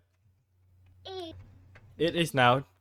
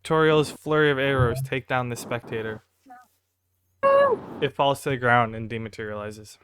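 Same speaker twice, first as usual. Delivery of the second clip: slightly raised storytelling announcement; game master narration; 4 dB louder than usual. Acted. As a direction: narrate the monster's fall to the table.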